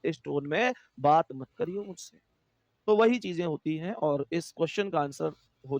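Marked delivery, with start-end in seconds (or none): 0.0-2.2 mock offended retort, quick and soft at first; retelling a friend's annoyed reply; imitating an offended person. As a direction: play someone telling you off for your tone. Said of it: "तो वो हमसे क्या कहता है".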